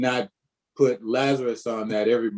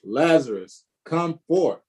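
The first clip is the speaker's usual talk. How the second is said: calling Lazarus out, forth rising high; a commanding call into the tomb; loud cry; 5 semitones higher than usual. Acted. Pastor reading Jesus calling Lazarus from the grave, loud commanding cry. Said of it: "he cried with a loud voice".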